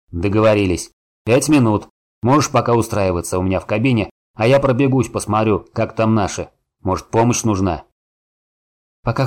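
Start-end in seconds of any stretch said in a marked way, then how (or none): 0.1-7.8 gruff dwarf voice. Acted. Гном ободряюще хлопнул.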